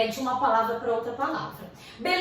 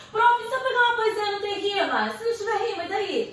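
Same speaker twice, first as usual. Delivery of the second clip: lightly voiced student, pitched higher; student questioning teacher; 6 semitones higher than usual. Teacher imitating a student asking about unrhymed poetry, lightly higher. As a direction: raise a higher, challenging student query.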